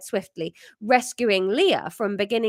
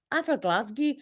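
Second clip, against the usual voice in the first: put-on higher Glasgow accent; Scottish accent; 4 semitones higher, 4 dB quieter than usual. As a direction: try out a Glaswegian catchphrase.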